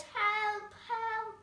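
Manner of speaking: high, loud frightened cry; cry for help. A narrator's reading. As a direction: call out in panic. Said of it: "and cried".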